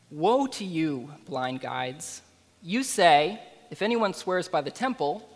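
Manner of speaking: solemn public Bible reading; scripture reading. Acted. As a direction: read the passage with weight, lingering on the rebukes. Reads scripture passage aloud.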